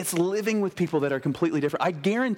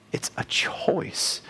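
slow whispered emphasis; much slower than usual. Real, not acted. Preacher telling brothers and sisters humility is a choice, whispered. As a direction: breathe it slowly, barely voiced. Sermon point, hushed.

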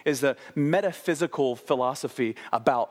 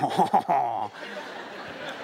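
exaggerated French "hoh-hoh-hoh" laugh; hammed-up French laugh of delight; mock French chortle. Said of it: "you become French".

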